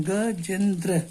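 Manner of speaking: गजेंद्र drawn out slowly, piece by piece; slow syllable split. Shown as a demonstration. Teacher demonstrating strokes to students, slow split. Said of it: "कितने stroke में आप बोलते हैं".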